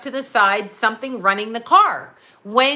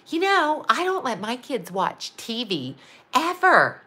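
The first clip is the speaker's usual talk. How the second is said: imitation of a singer. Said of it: "she went out there publicly and she went".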